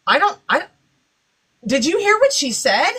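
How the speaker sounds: a touch of startled panic, asking her coworker; a new nurse mildly freaking out. Retold or imitated. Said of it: "she's freaking out".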